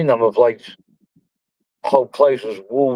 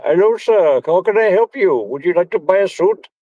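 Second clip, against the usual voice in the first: mock shop assistant; 6 semitones higher than usual. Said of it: "Now it's like".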